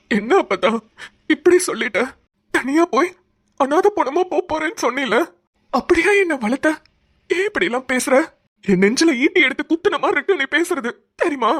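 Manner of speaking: wounded grandson pleading with his grandmother; a voice climbing into tears; hurt, tearful protest. Acted.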